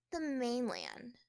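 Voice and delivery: bored sighing answer, slow; sighed. Acted. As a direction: let it out on a weary sigh. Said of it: "she sighed".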